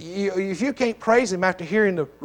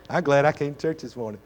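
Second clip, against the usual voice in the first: laughing; 3 semitones lower than usual. Real, not acted. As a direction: say it through a real chuckle. Repeats line, second with laugh.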